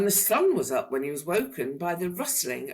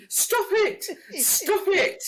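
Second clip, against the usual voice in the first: loud, much higher, laughing plea; crying out laughing; 5 dB louder, slower than usual. A narrator's reading. Tickled dragon crying out, laughing. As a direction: beg through the giggles. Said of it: "he cried".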